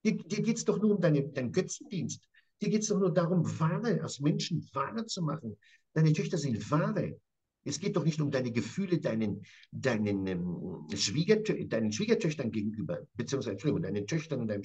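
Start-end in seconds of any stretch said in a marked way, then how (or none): 0.1-9.5 angry accusation. Acted. Jakob raging at Laban.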